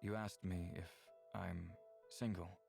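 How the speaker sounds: halting, understated sadness; sad. Acted. Brave admits to Danya being single, sad. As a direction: admit it with a touch of sadness, pausing. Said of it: "Despite how sad Brave sounds".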